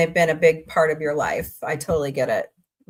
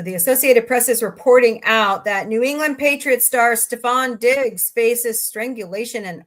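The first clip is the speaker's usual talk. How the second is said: brisk-starting news report, slightly raised pitch; news read; 4 semitones higher, 4 dB louder than usual. Real, not acted. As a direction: read out a headline to listeners.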